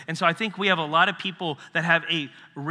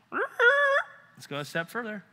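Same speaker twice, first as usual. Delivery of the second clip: high, slow push; probing question; 9 semitones higher, slower than usual. Retold or imitated. Jesus pressing a man who thinks he's done it all, high and slow. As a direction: lean in and press further. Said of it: "he always asks that penetrating questions like".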